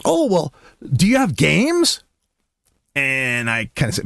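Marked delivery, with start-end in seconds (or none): 0.0-2.0 high child imitation; little girl. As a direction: ask like a curious small kid. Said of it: "and she goes".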